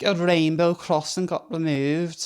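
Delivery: mock outrage. Mocking the news report.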